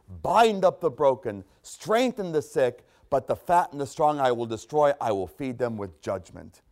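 solemn, measured scripture reading. Acted. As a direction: read God's words with weight. Reads scripture in sermon.

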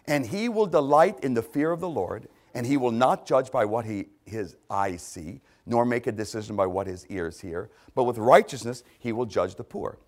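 deliberate reading, phrase by phrase; measured scripture reading. Real, not acted. Preacher reading Isaiah to the congregation, measured and emphatic. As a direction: proclaim the verses with emphasis. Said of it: "I'm gonna read them slowly".

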